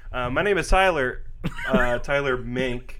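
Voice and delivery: slowed, careful self-introduction; carefully announced name; slow deliberate intro. Real, not acted. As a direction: spell out your own name slowly, as if unsure. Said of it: "Why'd you say it like that?".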